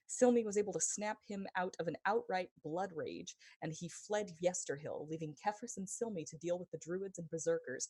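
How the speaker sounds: emphatic, lively game master's recap; dramatic previously-on story narration. Acted.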